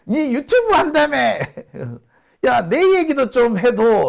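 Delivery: high, excited Busan dialect pleading; Busan friend. Retold or imitated. Friend on the phone asking to be mentioned, excited Busan dialect. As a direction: egg him on like an old mate. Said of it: "저한테 전화를 합니다".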